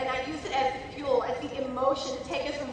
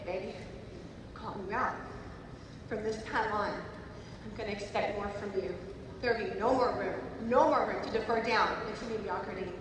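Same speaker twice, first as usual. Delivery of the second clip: a hint of a loving divine calling; voice of God; 3 semitones lower, 3 dB quieter than usual. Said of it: "And I felt God say".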